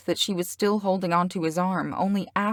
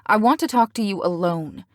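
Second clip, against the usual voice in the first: curt, sharp demand; snapping; 2 semitones higher, 5 dB louder than usual. Acted. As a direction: snap it at him. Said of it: "Celeste snapped at him".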